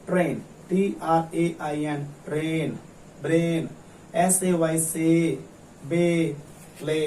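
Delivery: slow demo with a held "ay" in ट्रेन, ब्रेन, से, बे, ले; long drawn-out A. Shown as a demonstration. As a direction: spell slowly, then stretch the "ए" in ट्रेन, ब्रेन, से, बे, ले. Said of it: "तब हम ए को लंबा खींचेंगे". (धीरे-धीरे, ट्रेन, ब्रेन, से में ए को लंबा खींचकर)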